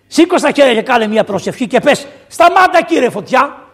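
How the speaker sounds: insistent urging building to a high shout; urgent acted plea. Friends beg Polycarp to pray against the fire, rising to a shout.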